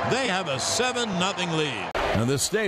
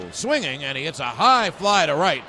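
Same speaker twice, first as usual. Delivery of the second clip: much louder, building shout; home run shout; 7 semitones higher, 6 dB louder than usual. Acted. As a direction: roar the call over the crowd.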